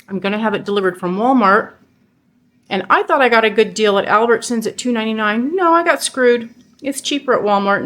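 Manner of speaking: talking while chewing jerky; words round a mouthful of jerky; mouth full. Real, not acted. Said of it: "Sorry for talking with my mouth full".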